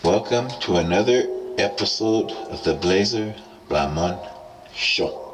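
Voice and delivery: echoey mic voice; loud echo effect; toy echo microphone. Real, not acted. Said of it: "Loud and echoey".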